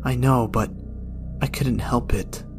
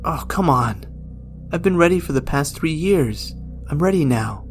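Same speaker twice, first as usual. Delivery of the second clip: higher, louder, impatient demand; frustrated old man pleading; exasperated plea; 5 semitones higher, 3 dB louder than usual. Acted. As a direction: beg death to finish it. Gerald pleads with death.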